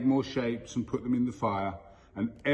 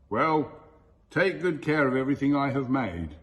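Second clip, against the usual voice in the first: the sky god Nyami booms a warning down at the spirit people, a touch louder than the narration; mildly booming, a touch louder; 3 dB louder than usual. Acted. Mild storyteller boom. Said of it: "Nyami boomed".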